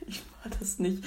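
whispered, very soft repeat; mock whisper. Friend echoing Spike's denial, whispered. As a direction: breathe it out as a joke.

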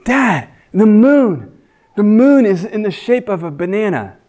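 put-on a small kid telling his dad; child's voice. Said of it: "he's like".

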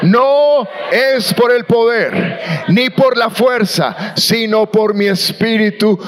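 slow, shouted recitation; strong, emphatic reading aloud; loud reading. Real, not acted. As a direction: proclaim it with force. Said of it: "Vamos todos fuertes".

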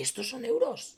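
whispered into the mic; ASMR whisper. Shown as a demonstration. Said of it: "hay que hablar bajito". (susurrando al micrófono)

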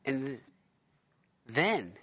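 put-on light New York accent. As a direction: pitch it like a New Yorker. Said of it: "you don't have to speak in a New York accent".

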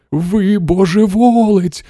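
put-on slow, high old-woman screech; screeching granny. A narrator's reading. Grandmother shaking Wonka, high slow screech. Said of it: "верескнула бабуся Джозефіна".

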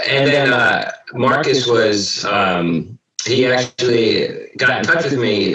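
robot voice. Real, not acted. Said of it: "my robot voice".

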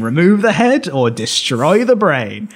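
slowed down, every word spelled out; slow emphatic repeat. Shown as a demonstration. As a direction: say it again slowly so it sinks in. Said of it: "I'll say that again".

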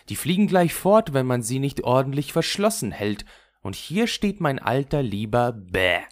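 a hint of a rough little robber girl showing off. Räubermädchen zeigt Gerda ihre Tiere. (leicht gespieltes wildes Räubermädchen, prahlend)

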